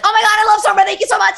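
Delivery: high, loud gushing fan voice. Retold or imitated. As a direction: squeal it like a starstruck fan. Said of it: "a lot of them come up and are like".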